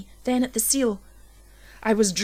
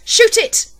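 even higher and louder frantic yell; 14 semitones higher, 12 dB louder than usual. A narrator's reading. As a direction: scream the order at full force. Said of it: "when I yelled".

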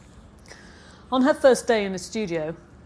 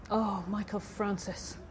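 soft, slow, hushed dismay; a slow hushed sigh of his name; whispered; 7 dB quieter, slower than usual. A narrator's reading. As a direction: breathe his name out slowly. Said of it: "she'd whispered".

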